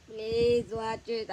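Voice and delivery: slow, loud quacking cartoon duck; pleading in a quacky duck voice; Donald Duck voice. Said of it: "Donald Duck voice".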